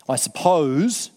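slow, reluctant concession; a grudging admission to the teacher; begrudging. Acted. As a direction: drag it out unwillingly. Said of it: "he's sort of begrudgingly".

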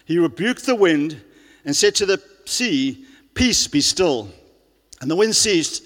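loud, driving sermon voice; preaching at full force. Real, not acted. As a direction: preach it out to the whole hall. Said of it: "I've been shouting a bit now".

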